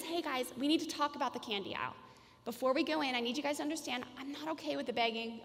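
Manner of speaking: put-on gentle, conversational word to the kids; cooperative agreement. Shown as a demonstration. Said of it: "An agreement is".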